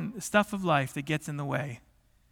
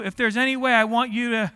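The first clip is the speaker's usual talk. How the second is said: higher-pitched earnest plea; imitated crying out; 4 semitones higher, 4 dB louder than usual. Preacher resuming Daniel's prayer, crying out. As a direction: press the request upward to God. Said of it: "he was crying out".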